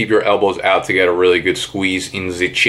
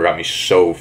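breathless tired; 4 semitones lower than usual. Real, not acted. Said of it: "This one killed my core".

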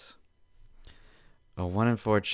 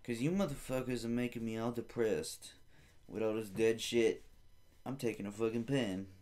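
mock angry rant; 5 semitones higher than usual. Retelling a rant at funeral home staff, mock furious. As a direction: rant like a defiant thief. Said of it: "I said".

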